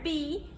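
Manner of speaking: "B" before "sound" as a short "buh"; letter sound. Shown as a demonstration. Teacher confirms the letter's sound, short separate "buh" for "B". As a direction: say that second "B" as "buh", not the name "bee". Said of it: "makes the B sound".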